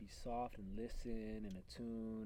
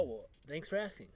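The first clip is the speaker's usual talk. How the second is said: higher, louder pleased reply; mock gratitude; 5 semitones higher, 8 dB louder than usual. Shy man invited to speak, mock grateful reply. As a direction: play a shy person finally asked.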